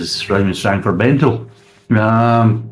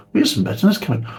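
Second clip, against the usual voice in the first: puzzled. Retold or imitated. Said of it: "you're thinking".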